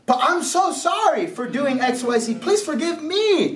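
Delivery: earnest mock begging; acted apology. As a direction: plead for forgiveness, pitch climbing. Acts the startled offender apologising.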